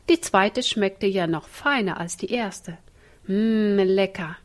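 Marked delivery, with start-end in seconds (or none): 3.3-4.4 drawn-out mmm of delight; savouring. Acted. Michael secretly nibbling the cake, savouring it. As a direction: relish the taste. Michael enjoying stolen raspberry.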